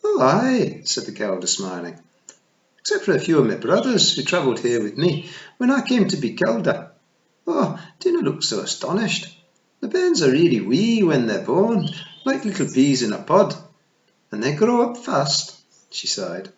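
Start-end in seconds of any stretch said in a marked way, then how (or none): 0.0-0.8 high, loud tiny pixie matriarch; a tiny Scots fairy queen, pitched high; Kelda voice. Acted. Kelda replies, smiling. 2.8-15.5 high, loud tiny pixie matriarch; a tiny Scots fairy queen, pitched high; Kelda voice. Acted. Kelda talks of her bairns.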